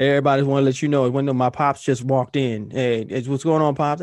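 loud, fast hype shout-out at the start; son's shout-out. Retold or imitated. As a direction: hype up your dad's entrance to the room. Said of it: "he shouts me out".

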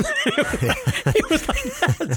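high, helpless laughter through the words; cracking up. Real, not acted. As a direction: break down laughing mid-quote. Cracks up at own retelling.

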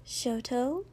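soft, rising call; gentle. A narrator's reading. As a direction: check on the patient gently. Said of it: "Ochako said gently".

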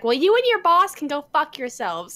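imitating an angry customer. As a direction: throw it back like the rude lady. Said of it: "And she's like".

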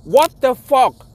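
a stunned outburst, drawn out; disbelief. Retold or imitated. Reacting to the police video in loud disbelief. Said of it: "and I'm like".

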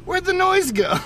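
put-on high toddler voice; imitating puzzled daughter. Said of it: "being like".

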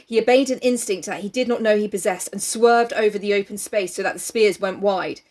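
measured dramatic reading; story narration. A narrator's reading. Reader telling co-host of Jack's attack, story narration. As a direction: read it out with weight on the action. Reads the novel aloud.

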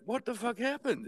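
high-pitched baffled question; retold disbelief. Asking coworker back from the dumpster, high-pitched disbelief. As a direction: ask it high, as if stunned.

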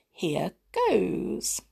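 soft unvoiced whisper. Real, not acted. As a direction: breathe the words out. Reader starts the chapter.

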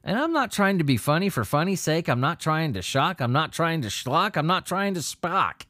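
rushing until out of breath; gasping through the words. Real, not acted. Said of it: "I ran out of breath there".

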